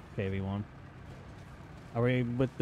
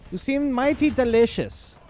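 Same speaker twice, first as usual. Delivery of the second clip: hammy villain commander; 11 semitones higher than usual. Acted. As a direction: taunt the enemy like a cartoon villain. Taunting enemy tanks in character.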